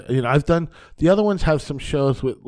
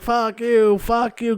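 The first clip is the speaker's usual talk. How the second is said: retold angry outburst; 9 semitones higher, much slower than usual. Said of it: "He's flipping".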